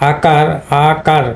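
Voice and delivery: আকার opened on "a" (আ), not "o" (অ); "আ" sound first. Shown as a demonstration. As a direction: say আকার as "a-KAR". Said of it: "এখানে হবে তোমার আকার".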